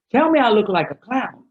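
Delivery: high, slightly hammed-up outburst; mock bluntness. Spouse on partner's outfit before going out, mock blunt.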